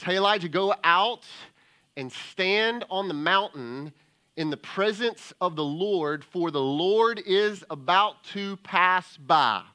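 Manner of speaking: loud, proclaiming call; loud divine proclamation; booming voice of God. Acted. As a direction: boom it out as the Lord. Preacher voicing God's call loudly.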